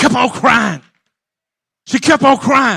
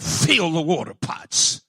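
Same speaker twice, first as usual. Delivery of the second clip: soft command; 8 semitones lower, 9 dB quieter than usual. Acted. Preacher voicing Jesus softly.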